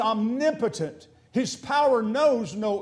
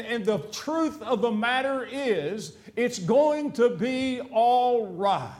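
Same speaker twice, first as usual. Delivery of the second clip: drawn-out, emphatic comfort to the church; slow, firm promise; slow reassuring; 2 semitones higher, 3 dB louder, slower than usual. Real, not acted. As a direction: lean on each word, slow and sure.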